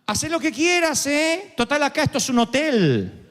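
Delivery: lightly voiced mother, dripping irony; ironic mother. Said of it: "Mi mamá".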